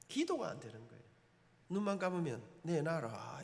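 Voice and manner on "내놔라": low, soft looming demand; God's command. Acted. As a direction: lower the voice like an inner divine order. God's demand echoing in mind.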